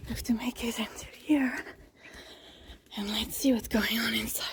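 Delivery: hushed whisper near the shelter; whispering as she reaches the shelter. Real, not acted. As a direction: whisper so no one wakes. Approaching sleeping children in shelter.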